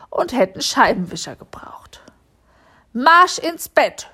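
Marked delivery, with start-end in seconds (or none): 2.9-4.1 slow, higher, louder scolding. A narrator's reading. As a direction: send the little vampire to bed, sternly. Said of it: "schimpfte sie".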